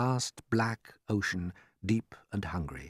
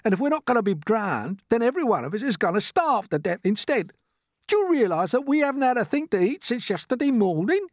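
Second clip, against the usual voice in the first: high, loud doom-mongering; gloomy earthworm; 14 semitones higher, 6 dB louder than usual. Acted. Earthworm tells the others they will starve, despairing. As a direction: build the case for disaster.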